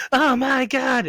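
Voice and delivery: high thrilled squeal; seeing yourself on TV late at night; mock excited gasp. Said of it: "I'm like".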